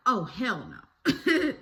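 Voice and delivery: slow laughing mom. Retold or imitated. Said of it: "my mom was like".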